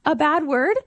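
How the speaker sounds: put-on high, slow questioning kid voice; slow question rising high at the end; imitated six-year-old girl. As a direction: mimic a child checking word by word. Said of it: "we have a six-year-old daughter".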